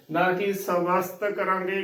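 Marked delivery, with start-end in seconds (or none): 0.5-1.2 ਸਵਸਥ said sa-vast, short a after first ਸ; wrong pronunciation. Shown as a demonstration. Teacher shows the mistake, ਸਵਸਥ misread as sa-vast. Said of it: "ਗਲਤ ਉਚਾਰਨ ਹੋਵੇਗਾ".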